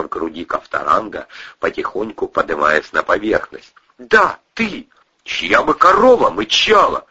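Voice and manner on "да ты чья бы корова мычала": angry accusation. A narrator's reading. Кристина обвиняет кузена.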